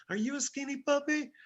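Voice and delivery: very high, silly dog-talk voice; funny animal-talk voice. Retold or imitated. Repeating it for bandmates on request, funny high-pitched voice. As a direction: pitch it way up, as if addressing a puppy. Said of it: "saying it in this funny voice".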